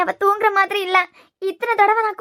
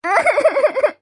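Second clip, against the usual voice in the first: put-on drunken wailing. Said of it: "இந்த ஆளுக்கு அழுது".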